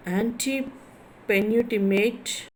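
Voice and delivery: antepenultimate slowly, in separate chunks; slow breakdown. Shown as a demonstration. Teacher spelling out a term for students, antepenultimate slowly broken up. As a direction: stretch out antepenultimate, pausing after "ante". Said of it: "third from the end".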